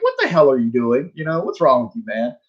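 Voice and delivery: easygoing retold telling-off at conversational pitch; straight, laid-back ribbing. Editor asks artist what's wrong, straight and laid-back. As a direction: chide casually, with no real anger. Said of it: "it was just straight like".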